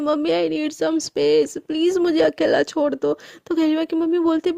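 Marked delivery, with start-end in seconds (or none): 0.0-3.2 slow, tearful, drawn-out plea; crying. Acted. Daughter sobbing to her mother through the locked door. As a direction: beg to be left alone through tears. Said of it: "रोते-रोते बोलती है".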